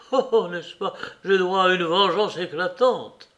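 the mayor crying for vengeance; vengeful outcry. A narrator's reading. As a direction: demand revenge with heat. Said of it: "s'écria-t-il".

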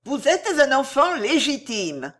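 emphatic, commanding declaration; forceful interruption. A narrator's reading. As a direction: cut in firmly. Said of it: "interrompit Fausta avec force".

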